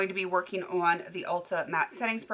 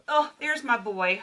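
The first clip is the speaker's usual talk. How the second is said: fond puppy greeting; 3 semitones higher, 5 dB louder than usual. Real, not acted.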